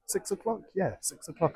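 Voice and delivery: surprised. Real, not acted. Surprised at the time.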